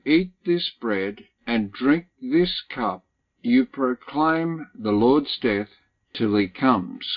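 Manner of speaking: measured, deliberate verse-by-verse reading; slow scripture reading. Real, not acted. Preacher reading so everybody gets a good handle, very slowly. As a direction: read slowly, pausing between phrases. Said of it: "read it very, very slowly".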